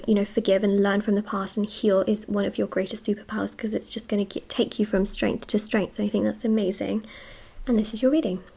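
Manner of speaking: breathless, airy delivery; talking while short of breath. Real, not acted. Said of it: "I feel so out of breath".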